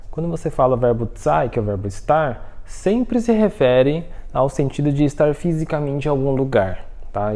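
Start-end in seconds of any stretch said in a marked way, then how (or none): none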